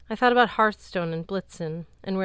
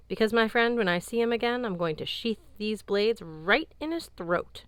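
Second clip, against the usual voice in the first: menacing; 4 semitones higher than usual. Acted. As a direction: promise revenge with cold menace. Vengeful threat against Loki.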